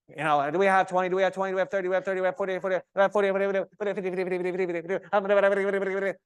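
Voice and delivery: mock auctioneer patter, quick. Mocking talkative yoga teachers as an auctioneer. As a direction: rattle it off like an auctioneer calling bids. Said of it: "It's like they're an auctioneer".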